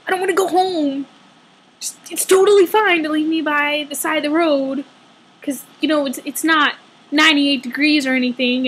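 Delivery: heavy irony, fake okay; sarcastic rant. Sarcastic rant about ignored buses.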